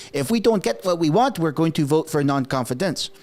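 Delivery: imitated Québécois politician's accent, lightly done; Quebec French accent. Bloc threatening a non-confidence vote, Quebec French accent. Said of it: "I could do that accent because français".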